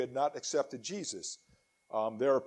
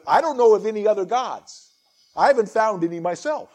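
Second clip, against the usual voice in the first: amused, booming voice of God, louder and higher; voicing God; 8 semitones higher, 11 dB louder than usual. Preacher voicing God's wry remark to his listeners, booming and amused. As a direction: play God as if shrugging, tongue in cheek. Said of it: "this is the funny part".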